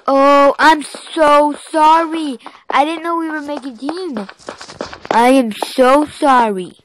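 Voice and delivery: drawn-out, emphatic sorry; over-the-top apology. Pretend. Gamer apologizes to an accidental teammate, effusively. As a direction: lean hard and slowly on the apology. Exaggerated apology to another player.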